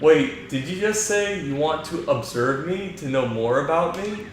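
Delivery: rising disbelief as a princess. Acted. Reads Princess Peach lines.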